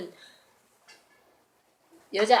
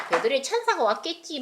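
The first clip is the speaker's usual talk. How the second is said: mock dismissive; 5 semitones higher than usual. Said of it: "하고 뭐".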